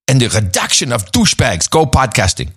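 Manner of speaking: horrible mock German accent, barking the lines; hammed-up fake German accent with shouted peaks. Reading a listener's note in a mock German accent. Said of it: "Preferably read by him in his horrible fake German accent".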